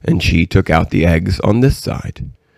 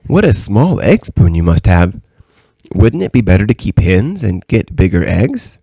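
a hint of a curious little girl, lilting; lightly voiced curious princess; 2 semitones higher than usual. Princess quizzing the old lady about her eggs, lightly voiced and curious. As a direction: lightly play the princess, questioning.

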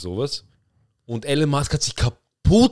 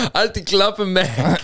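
higher, mildly hammed-up cartoon dad; a light imitation of Peter snapping at Meg; mock Peter Griffin; 5 semitones higher, much slower than usual. Friend retells the Family Guy line, voicing Peter a bit higher. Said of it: "und er sagt so".

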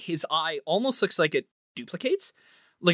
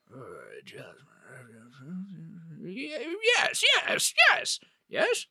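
soft mumble turning to halting yeses; hesitant, stretched-out thinking noises; pondering aloud; 4 dB quieter than usual. Acted. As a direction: mull it over, then repeat yes in rising realization. Host ponders request, twirling mustache.

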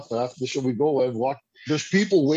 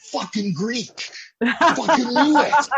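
higher, louder mock outburst, laughing through it; exasperated friend; 7 semitones higher, 4 dB louder, slower than usual. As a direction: play the baffled friend who just figured it out.

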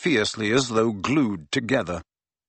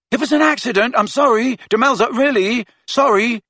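high, loud, frantic apologies; shouting apology; 12 semitones higher, 5 dB louder than usual. Acted. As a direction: yell sorry after her in a panic. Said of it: "Ron shouted after her".

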